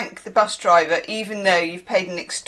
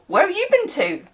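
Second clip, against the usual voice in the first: lightly voiced Bristol accent, pitched high; high Bristol lilt on the question; Bristol saying; 9 semitones higher than usual. Shown as a demonstration. Vlogger showing a third local saying, Bristol accent. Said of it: "Or you can also say that".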